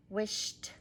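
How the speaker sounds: "wished" with a released t after the sh; wished with T sound. Shown as a demonstration. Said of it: "add a T sound to the end".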